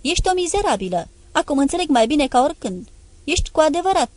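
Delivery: raging at his lover; yelling insults. Acted. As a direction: hurl the words at her. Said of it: "A început să urle la mine".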